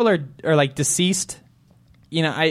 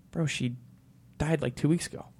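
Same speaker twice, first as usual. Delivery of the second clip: sombre news; 13 dB quieter than usual. Retold or imitated.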